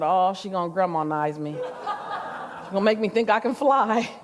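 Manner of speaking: low, slow amused mutter; a teen joking about grandma's pep talk, low and amused; wry laughing aside. Retold or imitated. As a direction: roll your eyes through a chuckle.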